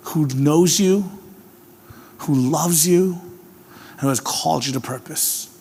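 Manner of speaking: drawn-out gentle assurance; slow reassuring emphasis; tender, slow. Acted. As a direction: linger on each phrase softly.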